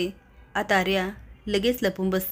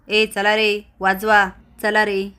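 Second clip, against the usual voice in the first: louder, slow call to the crowd; mock rallying call; 5 dB louder, slower than usual. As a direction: shout the villagers on to play. Appa rallies villagers to play. (गावकऱ्यांना मोठ्याने हाक)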